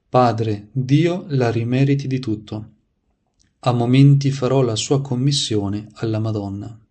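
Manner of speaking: measured, projected read-aloud of a saint's life; story narration. A narrator's reading. Preacher reading saints' anecdotes to listeners, devotional narration. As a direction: read it out clearly, phrase by phrase.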